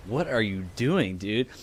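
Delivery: soft, slow, quiet confusion; a hint of a puzzled kid; puzzled little girl. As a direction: ask it baffled and low. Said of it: "has her eyebrows pushed together".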